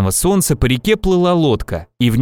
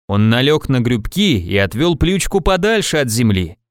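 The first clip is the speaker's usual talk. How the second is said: mildly solemn storytelling; solemn, with expression. A narrator's reading. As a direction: recite nonsense words in all seriousness. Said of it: "торжественно с выражением". (торжественно, с выражением)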